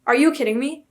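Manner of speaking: high, loud, incredulous outburst; loud disbelief. Real, not acted. Vlogger imagining a ten-hour reading timer, loud disbelief. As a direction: exclaim in playful outrage, pitch jumping up.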